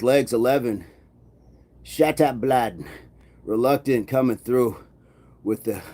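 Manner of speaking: lightly put-on British accent; attempted accent. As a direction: try out a rough British Isles accent. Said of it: "working on that accent".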